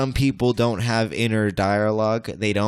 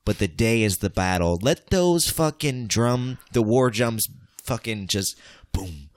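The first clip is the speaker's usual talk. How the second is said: rousing battle speech, pitched up; epic intro speech; 3 semitones higher than usual. Acted. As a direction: hype the crowd like a war intro. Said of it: "Why am I fucking doing an intro?".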